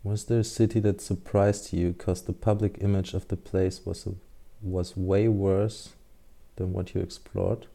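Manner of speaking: halting first read-through, quiet; stumbling cold read. Real, not acted. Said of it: "let me read it again".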